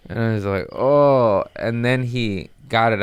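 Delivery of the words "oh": loud, raised groan; acted pained groan. Patient retelling the tooth pulling, loud acted groan. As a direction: re-enact suffering through the procedure. Patient reacting in dentist's chair.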